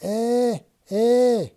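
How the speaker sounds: startled grunts. Acted. Dixon startled awake.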